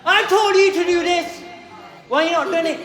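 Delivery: put-on shouting at a kid who didn't do the job; angry telling-off. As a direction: yell it like a fed-up teacher. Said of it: "are you gonna get shouted at?".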